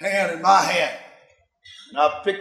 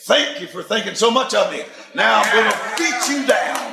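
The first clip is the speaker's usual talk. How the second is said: thanks then a shouted threat to hell; defiant shout. Retold or imitated. Preacher taunting hell, shouting defiantly. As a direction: punch it out like a fighter's taunt.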